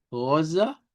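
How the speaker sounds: "rosa" with a centralized final A; Portuguese rosa. Shown as a demonstration. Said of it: "Por eso decimos".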